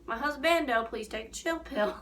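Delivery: lightly voiced affectionate plea. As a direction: sweetly beg him to calm down. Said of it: "And I'm like".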